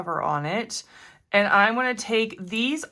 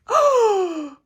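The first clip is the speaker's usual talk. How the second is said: high sharp gasp of surprise; 12 semitones higher, 5 dB louder than usual. Real, not acted. Crafter gasping at her own nail-art stamp. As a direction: gasp as the paint shifts.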